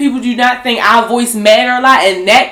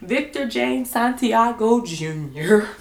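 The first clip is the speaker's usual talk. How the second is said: careful formal announcement; 3 semitones lower than usual. Real, not acted. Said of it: "I'ma get this right".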